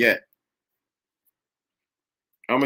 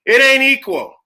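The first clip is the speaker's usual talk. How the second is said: suddenly much louder and higher; emphatic outburst; 8 semitones higher, 6 dB louder than usual. Real, not acted. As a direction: blurt it out hard, shutting the idea down. Rebutting equality, bursts out.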